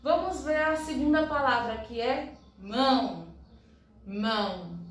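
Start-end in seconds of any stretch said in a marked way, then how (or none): 4.0-4.8 "Mão" in one unbroken sound; one single syllable. Shown as a demonstration. Teacher showing a monosyllable, said in one go. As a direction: say "Mão" all at once, undivided. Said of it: "Pronuncio de uma vez só".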